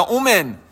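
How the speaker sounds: اومن said "omen" again, first vowel changed to o; mispronounced Amen. Shown as a demonstration. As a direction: another wrong "omen". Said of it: "آمنا به اشتباه تلفظ بکنه".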